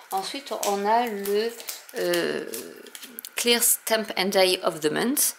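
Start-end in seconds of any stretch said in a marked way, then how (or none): 3.4-5.4 English names read in a French accent, a bit slow; self-mocking French accent on English words. Real, not acted. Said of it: "avec mon, mon bel accent".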